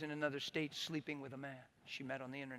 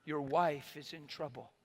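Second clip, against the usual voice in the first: gentle and calm. Retold or imitated. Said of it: "the Lord stayed gentle and calm".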